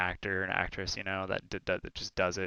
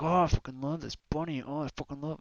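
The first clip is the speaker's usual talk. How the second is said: put-on higher voice, gushing at the bunny; retelling the streamer's tic to a cohost, mock gushing voice; imitating her tic; 6 semitones higher than usual. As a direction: mimic the streamer doting on her bunny, pitched up. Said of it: "and then she's like".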